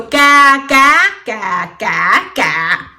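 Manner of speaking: CA repeated, each on a different tone; Vietnamese tone drill. Shown as a demonstration. Teacher contrasts words by tone alone, CA tone by tone. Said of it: "These are six different words".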